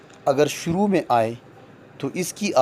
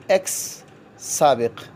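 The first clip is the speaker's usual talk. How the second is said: slow demo word; slower than usual. Shown as a demonstration. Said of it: "ای کی آواز الف کی ہو گئی".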